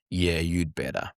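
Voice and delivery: slow, low-key menacing retort; hostile. Retold or imitated. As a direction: imitate a man coldly warning someone, slowly. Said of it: "There was a hostility there".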